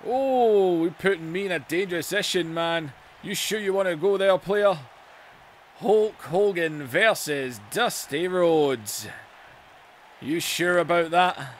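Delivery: lightly voiced Dusty. Plays Dusty, higher and cocky.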